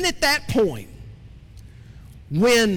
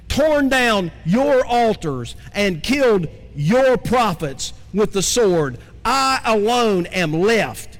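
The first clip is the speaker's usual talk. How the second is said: slow, weighty reading of Elijah's lament; slow scripture reading. Acted. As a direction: lay out each grievance slowly. Reads Elijah's complaint.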